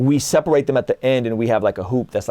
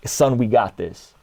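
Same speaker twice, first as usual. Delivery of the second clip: God as coach; slower than usual. Retold or imitated. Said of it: "And God is like".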